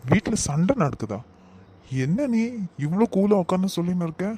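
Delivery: high-pitched, incredulous scolding; indignant disbelief. Acted. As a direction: start high in disbelief, then press them to act. Alarmed at household fight, scolds relative.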